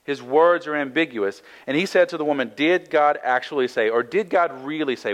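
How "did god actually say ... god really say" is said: mildly doubtful, questioning tone on GOD and SAY; hint of skepticism. Shown as a demonstration. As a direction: plant a little doubt, lightly. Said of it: "With a, with a hint of skepticism".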